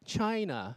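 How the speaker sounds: CHINA stressed on CHI, falling; statement "China", weight on the first syllable. Shown as a demonstration. Teacher showing where stress sits, CHI stressed in "China". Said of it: "是第一个重音".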